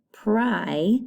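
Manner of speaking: "pri" drawn out to rhyme with "pry"; long I. Shown as a demonstration. Teacher isolating the vowel for pupils, "pri" with long I. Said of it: "Listen to the I".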